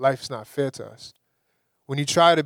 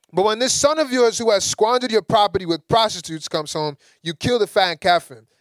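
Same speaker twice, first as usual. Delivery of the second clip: resentful complaint; 5 semitones higher than usual. Retold or imitated. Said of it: "talked like that to my father".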